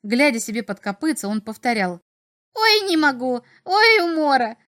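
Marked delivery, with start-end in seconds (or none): 2.5-4.6 imp cackling loudly; laughing fit. A narrator's reading. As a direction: cackle out each cry as the imp. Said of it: "Вдруг чертёнок расхохотался".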